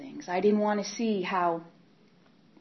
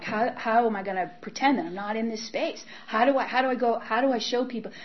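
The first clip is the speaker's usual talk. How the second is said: panicked pleading; 4 semitones higher than usual. Retold or imitated. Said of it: "and I'm like".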